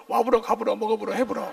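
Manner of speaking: loud mock Jeolla endings with 불어; Jeolla dialect. Shown as a demonstration. Preacher joking how spies fake Jeolla dialect, playful mock Jeolla. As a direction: hammer each 불어 ending in Jeolla style. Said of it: "전라도 말?".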